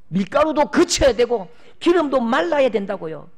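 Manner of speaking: impassioned pulpit delivery; fervent preaching. Acted. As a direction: preach it with fire. Preaching at full force.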